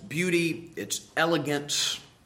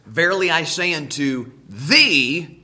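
reading scripture; 6 dB louder than usual. Acted. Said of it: "Jesus said to Nicodemus".

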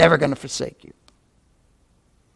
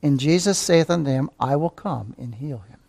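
hushed reading; 3 semitones lower, 8 dB quieter than usual. Shown as a demonstration. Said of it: "Look at these little words".

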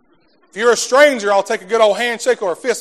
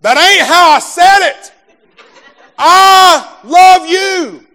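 higher, louder, very slow laughing shout; laughing correction; 9 semitones higher, 8 dB louder, much slower than usual. Retold or imitated. Wife scolding husband at the door, laughing loud and slow. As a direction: playfully demand he say it right. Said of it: "exactly how she said it".

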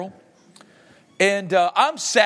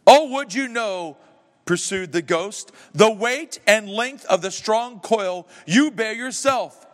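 slow, mildly raised ghostly warning; slow ghost lament; 4 semitones higher, slower than usual. Acted. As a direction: weigh down each word like a chain. Reads ghost's speech slowly.

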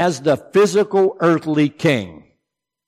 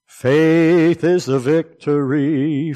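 slow solemn affirmation; 3 semitones higher, much slower than usual. Real, not acted. Repeated slowly, meditative.

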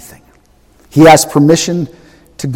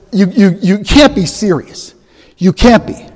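sarcastic God; 6 semitones higher than usual. Acted. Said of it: "The Lord says".

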